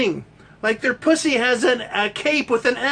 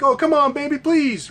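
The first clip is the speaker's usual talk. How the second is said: hammed-up pleading man; mock begging husband; 5 semitones higher than usual. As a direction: beg like a desperate boyfriend. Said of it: "the guy's like".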